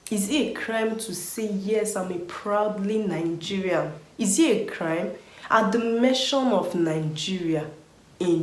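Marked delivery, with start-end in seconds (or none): none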